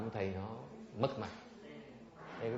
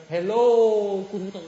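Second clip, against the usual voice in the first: high, loud mocking hello; mock casual hello; 6 semitones higher, 15 dB louder, slower than usual. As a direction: ridicule the overfamiliar greeting. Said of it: "Does he call his master". (chào thầy kiểu chế nhạo)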